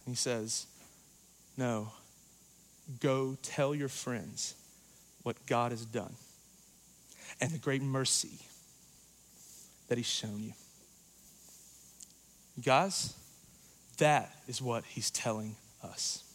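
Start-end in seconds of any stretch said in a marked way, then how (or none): 1.6-10.5 gracious. Retold or imitated. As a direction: tell him kindly, full of grace. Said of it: "Jesus meets him with grace".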